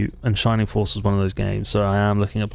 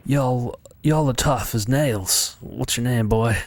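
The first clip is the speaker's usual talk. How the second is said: light drawn-out Texan voice; a hint of Texan twang in a game character's line; Texan accent; slower than usual. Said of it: "I'm doing a Texan accent".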